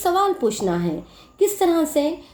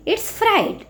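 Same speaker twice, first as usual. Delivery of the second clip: first take of fright pitched high and set apart; modelled answer; 10 semitones higher than usual. Shown as a demonstration. Teacher modelling the answer for students, high lifted fright. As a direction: sing out fright on a lifted note for the class. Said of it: "what is the spelling of fright?".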